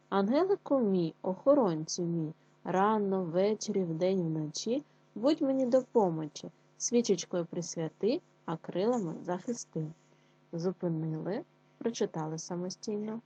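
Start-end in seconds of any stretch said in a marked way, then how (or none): 0.1-9.9 put-on louder, expressive recital of a child's prayer; poem reading. Teacher reads prayer poem.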